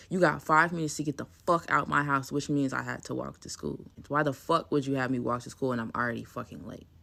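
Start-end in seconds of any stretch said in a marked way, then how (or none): 0.1-2.3 harsh order, louder and blunt; cold harsh order. Retold or imitated. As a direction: bark it like the real mom. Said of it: "Straight like that".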